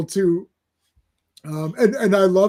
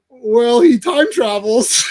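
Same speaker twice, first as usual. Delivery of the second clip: laughing punchline; 4 semitones higher, much slower than usual. Retold or imitated. Deadpool punchline.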